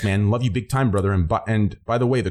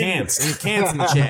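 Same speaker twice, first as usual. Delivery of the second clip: Aussie like Train; 4 semitones higher than usual. Retold or imitated. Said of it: "Like Train".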